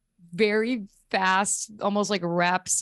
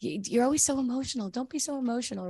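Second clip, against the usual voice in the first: quick, higher, dismissive mock voice; fast, higher impression of a condescending man; mock condescending old dude; 5 semitones higher, 4 dB quieter, faster than usual. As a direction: brush her off like a patronizing old man in a boardroom. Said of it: "an old dude being like".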